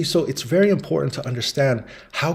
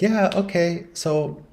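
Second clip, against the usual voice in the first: lightly voiced wife faking a casual phone call, higher; a hint of a wife dropping hints on the phone; wife pretending on phone; 5 semitones higher than usual. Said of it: "And she's like".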